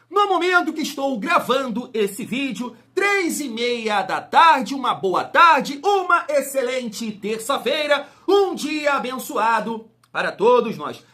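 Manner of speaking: big greeting. Acted. Hyped-up video greeting.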